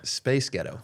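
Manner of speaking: steady put-on American accent. Shown as a demonstration. Co-host modelling for the struggling host, American accent. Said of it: "Do it again".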